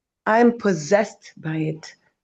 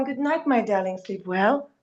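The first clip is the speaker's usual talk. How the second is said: softer, tender goodnight to a phone; mock tender goodnight; 3 dB quieter than usual. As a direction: coo it gently, like tucking someone in. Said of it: "You're not gonna say to your phone".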